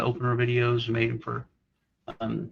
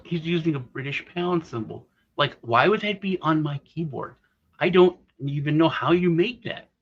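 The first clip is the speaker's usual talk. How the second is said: higher-pitched retold protest; mock indignation; 4 semitones higher than usual. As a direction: imitate a baffled friend objecting. Retold baffled friend objecting.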